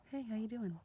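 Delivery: faking it till you make it, a cheery hello; fake cheerful. Shown as a demonstration. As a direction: put on a cheery mask over sadness. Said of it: "Look at this".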